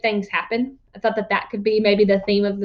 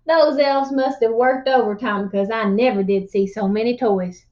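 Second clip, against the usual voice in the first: lively storyteller voice reading a tall tale; animated read-aloud narration; story narration; 2 semitones higher than usual. A narrator's reading. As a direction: spin the yarn to the class.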